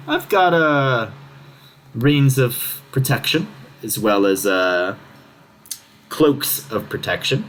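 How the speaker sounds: slow, drawn-out mimic voice; kenku clerk voice. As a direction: list the wares like a parroting bird. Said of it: "a voice essentially says".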